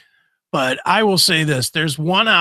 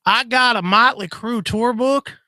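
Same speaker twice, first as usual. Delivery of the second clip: high-pitched mock caller voice; imagined caller Tim; 8 semitones higher than usual. Host imitates Tim selling a tour book, mock caller. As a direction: pitch it up like a goofy radio seller. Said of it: "I can hear Tim calling up".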